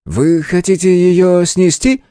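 playing along. A narrator's reading. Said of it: "подыграл мне щитовод".

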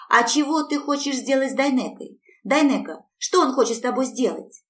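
put-on high, loud child's voice; little Yulechka asking about her father, in a high child's voice; little girl. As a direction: ask it like a curious little girl. Little girl questions father and Dayneka.

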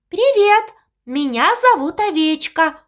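high squeaky little creature. Acted. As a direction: chirp it in a squeaky voice. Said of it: "удивительно песклявым голосом". (писклявым голосом)

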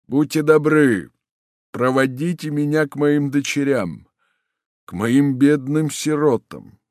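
a father holding back tears; pleading, voice quivering; trembling with emotion. Acted. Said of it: "голос маршала снова задрожал от волнения".

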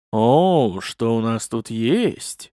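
lightly voiced playful woman; a hint of a coy woman; playful woman's voice. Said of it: "игривый женский голос".

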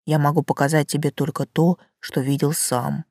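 low, soft tree voice; talking tree. Acted. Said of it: "предупредил Савелий".

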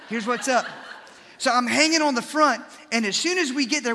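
laughing through the words, loud and high; can't hold back a laugh telling it. Real, not acted. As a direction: pastor laughing while describing hanging off the boat. Laughing while telling gigging story.

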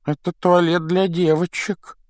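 put-on high wispy ghost girl. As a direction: play the moping ghost girl. Ghost girl Myrtle speaks.

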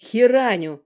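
loud, high sing-song jab; matching sweet tone. A narrator's reading. Aunt answering the mother, sweet mocking tone. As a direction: chime back in the same sugary tone. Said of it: "в тон мне ответила Алекс".

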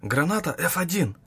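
loud, urgent radio call; shouted into radio. A narrator's reading. Guard reporting into his radio, urgent shout. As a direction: bark it into the radio.

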